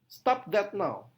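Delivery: slow Stop that now, each word hit; slow command, every word stressed. Shown as a demonstration. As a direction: space and punch every word. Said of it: "setiap kata ditekankan".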